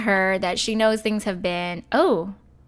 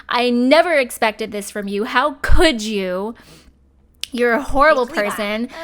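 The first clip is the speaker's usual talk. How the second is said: louder, heated mock insults at the cheater; angry insults; 2 semitones higher, 4 dB louder than usual. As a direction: tell her off like a hurt, furious wife, half-acted. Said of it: "We're gonna insult her".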